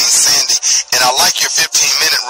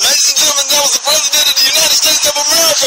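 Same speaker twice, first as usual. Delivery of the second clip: fired-up rally shout, much higher; rally speech; 12 semitones higher than usual. Real, not acted. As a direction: hype the crowd, shouting. Radio host rallies listeners to vote.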